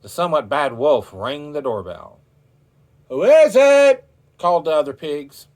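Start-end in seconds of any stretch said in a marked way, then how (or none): 3.1-4.1 much higher, loud pig squeak; high pig call. A narrator's reading. The pigs call out to the wolf, high squeaky voice. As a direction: squeal it through the door.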